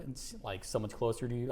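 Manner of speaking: ordinary talk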